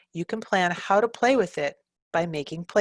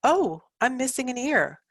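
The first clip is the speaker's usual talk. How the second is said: playful toy voice; 7 semitones higher than usual. Shown as a demonstration. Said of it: "a script for going shopping".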